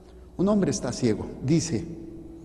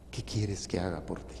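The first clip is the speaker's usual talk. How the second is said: soft question; 6 semitones lower, 9 dB quieter than usual. Acted. Repeated for meditation.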